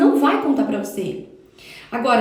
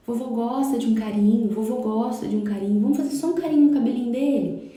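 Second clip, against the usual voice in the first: gentle coaxing. Retold or imitated. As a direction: coax the little one kindly, no pressure. Parent gently coaxing child to hug.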